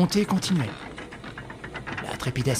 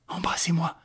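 tender plea; 4 semitones higher than usual. Acted. Tender request before death.

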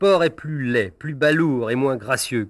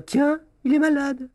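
high squeaky mocking voice; mocking jeer; 12 semitones higher than usual. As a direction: jeer in a shrill child's pitch. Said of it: "Ou bien".

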